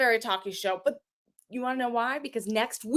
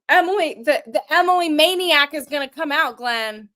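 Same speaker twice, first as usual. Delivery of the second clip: heel attitude; 3 dB louder than usual. Acted. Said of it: "get all heel on you".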